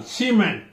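cement with MENT stressed; second-syllable stress. Shown as a demonstration. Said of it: "second syllable".

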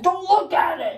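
put-on high, babyish whine; baby talk. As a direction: talk like a whiny toddler. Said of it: "Why are you talking like a baby?".

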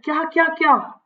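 hammed-up daily soap gasping repeat; mock melodramatic triple what; soap opera shock. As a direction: act like a TV serial heroine hit by shock. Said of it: "जैसे daily soap में होता है".

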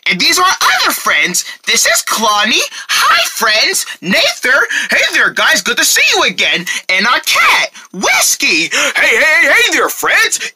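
high, bright puppet greetings; cheery puppet voices. Acted. Puppets greeting the children watching, high and eager. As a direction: greet the kids like excited puppets.

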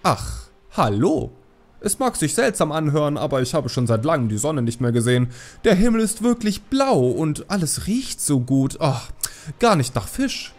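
put-on a cheerful old fisherman calling over the waves; enthusiastic call across water. A narrator's reading. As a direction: call out excitedly to the girl on shore. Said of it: "Er winkte enthusiastisch und rief".

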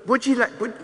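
father shouting into silent phone, rising hello; calling out. Real, not acted. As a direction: shout into the receiver for an answer.

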